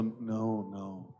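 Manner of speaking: low, soft reply fading away; sheepish denial. Retold or imitated. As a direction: imitate a meek, guilty answer. Friend sheepishly admits, retold.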